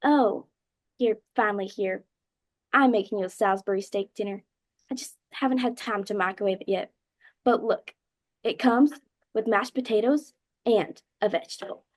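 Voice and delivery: put-on loud Southern accent, an overeager mother; Southern mom. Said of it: "She's Southern. She goes".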